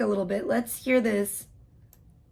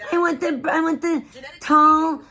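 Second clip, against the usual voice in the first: mock nasal Karen; 2 semitones higher, slower than usual. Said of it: "with your nasally ass fucking voice".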